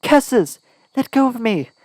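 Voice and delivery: high, loud angry outcry; calling out angrily. A narrator's reading. Heroine shoved forward, crying out loudly in anger. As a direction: struggle and cry out at him. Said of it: "I continued to call out".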